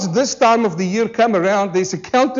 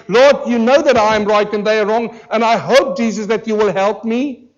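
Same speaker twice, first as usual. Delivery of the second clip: mock prayer. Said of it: "they pray and they say".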